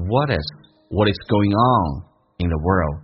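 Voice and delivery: slow "what is" run together as one word; 连音示范. Shown as a demonstration. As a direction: link "what is going on in the world" smoothly and slowly. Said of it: "What跟S有连音叫what is". (慢速连读“what is”，一口气带过)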